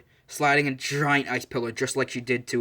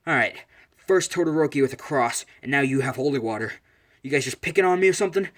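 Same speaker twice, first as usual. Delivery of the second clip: indignant protest; 2 semitones higher, 4 dB louder than usual. Retold or imitated. Fighter drained by holy water, indignant. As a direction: protest at being picked on.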